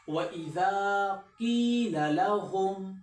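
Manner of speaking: slow melodic tajweed recitation; Quran recitation. Shown as a demonstration. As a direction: recite slowly and carefully.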